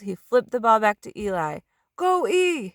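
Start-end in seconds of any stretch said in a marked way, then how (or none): 2.0-2.7 high loud cheer; shout. A narrator's reading. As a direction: yell him on. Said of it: "he shouted".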